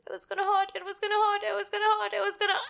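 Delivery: put-on high, pleading child voice, repeating in dread; a small girl bracing for the needle; scared little girl. Salma dreading the flu shot.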